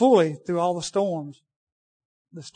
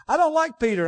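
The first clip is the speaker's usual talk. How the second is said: quoting Wade; 8 semitones higher, 3 dB louder than usual. Retold or imitated. Quoting Wade's sermon.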